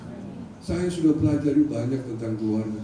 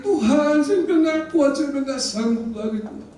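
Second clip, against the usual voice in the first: retold cry to God; 10 semitones higher than usual. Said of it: "Saya teriak". (seruan putus asa kepada Tuhan, nada tinggi)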